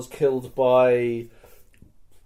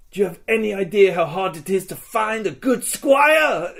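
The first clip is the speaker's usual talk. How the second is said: loud, higher mock-outraged shout; exasperated rant; 5 semitones higher, 4 dB louder than usual. Player lamenting a lost squire, exasperated shout. Acted complaint about losing a squire.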